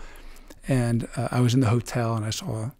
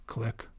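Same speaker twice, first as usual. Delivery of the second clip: mock camera click; 10 dB quieter than usual. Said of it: "and I click".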